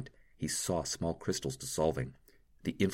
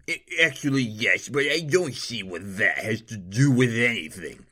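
higher, stumbling haughty lord caught out; flustered nobleman; 4 semitones higher, 6 dB louder than usual. A narrator's reading. Nobleman admitting parties to the doctor, flustered. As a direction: bluster to cover the embarrassment.

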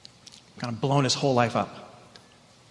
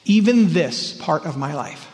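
earnest prayer; 3 semitones higher than usual. Acted. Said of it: "giving a gift of Jesus to Jesus that says".

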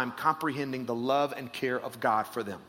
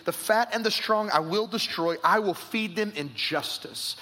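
raised proclaiming read; scripture reading; 2 semitones higher than usual. Acted. Pastor reads God's promise to his flock, proclaiming. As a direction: give God's promise full weight.

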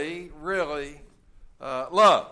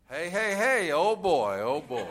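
mock excited Adam. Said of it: "it means".

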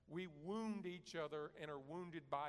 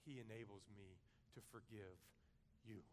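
softer, low gentle answer; quiet forgiveness; 6 semitones lower, 10 dB quieter than usual. Retold or imitated. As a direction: say it softly, like a dying woman. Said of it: "and she says".

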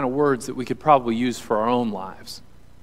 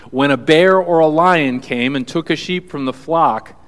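louder, firmer read of the quote; bold scripture reading; 6 dB louder than usual. Acted. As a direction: proclaim the line with force. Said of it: "this is what David says".

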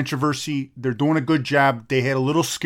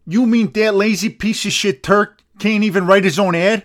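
outraged; 5 semitones higher, 4 dB louder than usual. Real, not acted. Outraged at sponsor.

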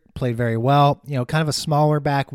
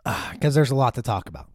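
just swallowed some coffee; after a sip of coffee. Real, not acted. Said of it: "Let me take a sip of coffee".

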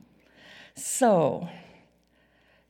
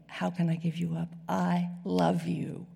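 1 soft crying plea; 4 dB quieter than usual. Acted. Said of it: "but he's crying, saying".

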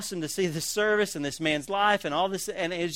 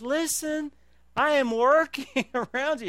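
God's stern call; 8 semitones higher, slower than usual. Acted. God rebuking sleeping Christians, a hint of stern urgency. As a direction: speak as God calling his sleeping people. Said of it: "And God says".

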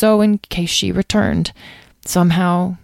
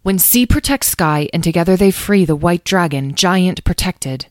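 reciting; 2 semitones higher than usual. A narrator's reading. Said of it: "he promptly recited the lines".

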